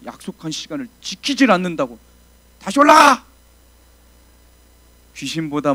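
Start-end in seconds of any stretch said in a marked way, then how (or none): 2.6-3.2 a high, loud barked order; angry shout. Retold or imitated. Senior pastor shouting at a frightened assistant: furious loud order. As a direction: shout him back up the mountain.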